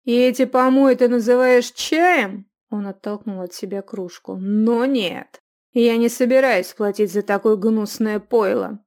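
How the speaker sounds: loud disgusted complaint; indignant. A narrator's reading. Youth indignant at the bad tea. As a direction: sneer at the slop. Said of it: "с негодованием воззрился".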